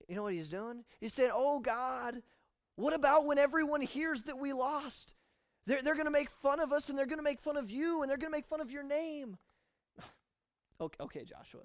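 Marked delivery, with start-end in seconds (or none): 1.3-9.4 high, loud dramatic lament; dramatic whine. Acted. Joshua dramatically whining that everyone will mock. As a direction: overplay the worry to God. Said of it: "you're being a little bit dramatic".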